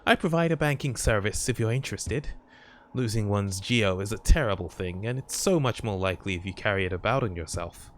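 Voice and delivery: lightly voiced sweet old lady; a hint of a kindly granny banker. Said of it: "How's my old lady voice?".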